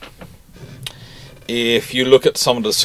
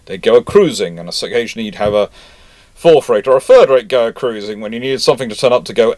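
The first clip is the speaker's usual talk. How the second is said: ordinary delivery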